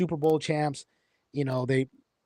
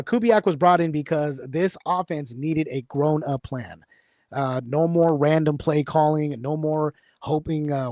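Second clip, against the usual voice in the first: teleprompter read. Shown as a demonstration. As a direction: announce it like an anchor on a teleprompter. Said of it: "I'm gonna read everything they put on the teleprompter".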